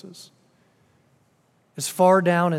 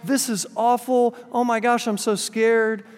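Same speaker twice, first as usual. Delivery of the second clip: retold terror; 5 semitones higher than usual. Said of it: "she is terrified".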